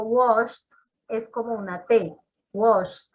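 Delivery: washed with a crisp T at the end; washed ending in a clear T; final T sound. Shown as a demonstration. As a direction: say washed as "wosht", hitting the T. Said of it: "tiene que exagerar ese sonido de esa T".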